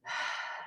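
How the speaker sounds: slow audible breath in through the mouth; deep demonstration breath. Shown as a demonstration. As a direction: take one full, deep breath. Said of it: "fill up your chest".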